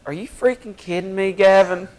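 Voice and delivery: high-pitched mock-exasperated impression; Larry Brackett. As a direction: do an incredulous coach voice, pitched high. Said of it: "your best Larry Brackett impression".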